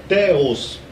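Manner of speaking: THEOS said slowly as TEH-os; Greek pronunciation. Shown as a demonstration. Teacher showing viewers how Greek says Theos, Greek pronunciation. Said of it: "aqui em grego você pronuncia".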